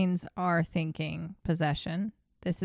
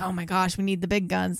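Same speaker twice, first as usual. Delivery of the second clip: plain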